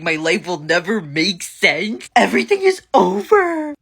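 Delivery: hammed-up wail rising to a very high, loud peak; mock devastation. Comedian mocking her supposedly devastated kid, melodramatic wail. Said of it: "He was devastated".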